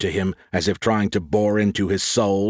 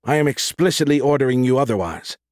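higher-pitched, insistent order; firm command; 5 semitones higher than usual. Acted. Leader overrules the guards' standing orders, firm command. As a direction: overrule them firmly, pitch raised.

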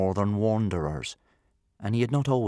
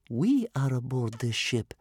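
higher-voiced small boy; boy pointing out; 4 semitones higher than usual. A narrator's reading. Captive boy corrects his grandmother, pointing out. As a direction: point it out in a child's voice. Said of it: "Bear Cub pointed out".

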